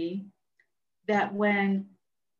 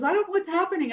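retold crying; 9 semitones higher, faster than usual. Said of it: "she's crying".

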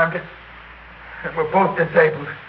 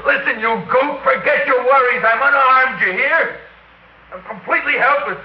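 higher, rising, bitter defiance; exasperated outburst; 6 semitones higher than usual. Acted. Wounded gunner tells enemy soldier to finish him, angry climbing outburst. Helpless gunner lashes out at captor.

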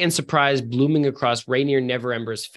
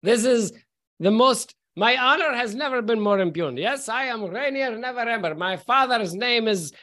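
pompous affronted nobleman, a touch higher; indignant drunk noble; 5 semitones higher than usual. Acted. Drunk nobleman to the ranger, pompously affronted. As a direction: puff up, honour wounded.

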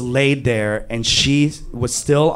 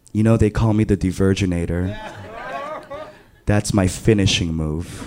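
lower, quick smug brag; a lightly voiced smug girl revealing her nickname; smug villain boast; 7 semitones lower, faster than usual. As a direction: announce your signature move like a villain. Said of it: "she leans over to me and she goes".

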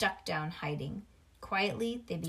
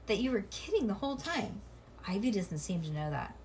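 plain reading voice

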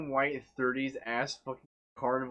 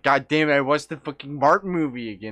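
mock frustration; 2 semitones higher, 6 dB louder than usual. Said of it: "I was like".

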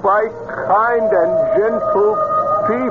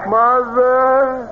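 dead son's voice; 4 semitones higher, slower than usual. Pretend. Mystic voicing dead son.

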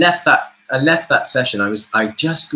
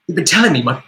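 mock annoyed friend; 5 semitones higher, 3 dB louder than usual. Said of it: "texts from my friends every now and again saying".

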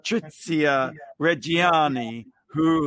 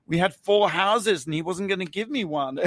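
higher-pitched mock confession, matter-of-fact; imitating an unrepentant interviewee; 4 semitones higher than usual. Host imitating the convicted wife's interview, unrepentant. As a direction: play her justifying herself without remorse. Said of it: "She's sitting there basically saying".

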